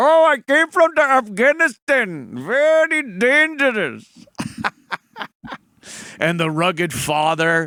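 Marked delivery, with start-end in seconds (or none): 0.0-4.1 exaggerated put-on Indian accent, very high pitch, slow. Mocking how a film's Afghan character talks; imitating an Indian accent. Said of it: "He's talking like this".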